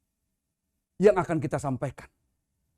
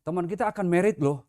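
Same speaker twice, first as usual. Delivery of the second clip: mildly upbeat, chatty telling; casual happy news. Retold or imitated. Preacher showing friends hearing cheerful wedding news, casually. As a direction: pass on the wedding news lightly. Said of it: "misalnya begini".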